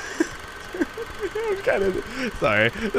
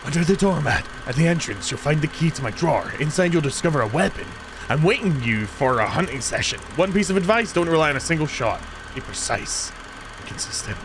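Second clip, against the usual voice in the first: reading a note aloud; faster than usual. Real, not acted. Reads out an in-game note.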